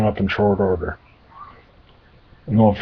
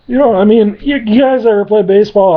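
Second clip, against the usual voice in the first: higher rambling demon; 10 semitones higher, 3 dB louder than usual. Acted.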